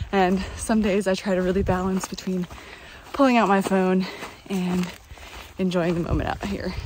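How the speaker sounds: panting while climbing uphill; out of breath. Real, not acted. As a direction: talk between hard breaths. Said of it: "Sorry, I'm panting, I'm climbing".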